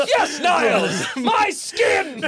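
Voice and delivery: very high slow shouted exclamation; Frasier impression. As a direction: bellow it like a pompous psychiatrist. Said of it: "That's the perfect Frasier line".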